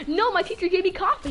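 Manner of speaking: put-on high, loud, buzzing kid reply; excited kid bragging; hyper kid. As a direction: blurt it out, wired on coffee. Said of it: "I'm like".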